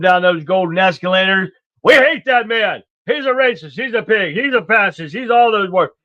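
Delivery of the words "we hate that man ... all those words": higher-pitched mocking rant; mock outrage. Vlogger parodying critics turning on Trump, higher mock outrage. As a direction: parody the critics' indignant chorus.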